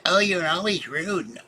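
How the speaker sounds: voicing the rude woman at the bus stop, mock indignant; indignant stranger. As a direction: play the huffy stranger, lightly. Stranger woman quoted snapping back.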